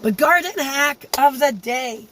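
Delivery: croaky voice from a cold; sick, rough voice; hoarse cold voice. Real, not acted. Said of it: "I have a cold and I've lost my voice".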